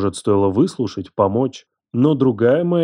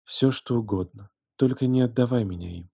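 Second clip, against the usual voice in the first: much softer, defeated; hushed surrender; 7 dB quieter than usual. Acted. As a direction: barely voice the surrender. She surrenders, whispering.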